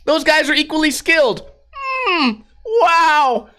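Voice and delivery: high, impressed naive bystander; clueless non-skater voice. Retold or imitated. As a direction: gush like someone who knows nothing. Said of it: "Some people might look at that and go".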